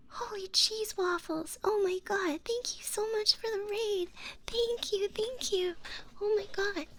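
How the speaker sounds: high-pitched gushing thanks; overwhelmed excitement. Real, not acted. Streamer bowled over by a raid, gushing high thanks.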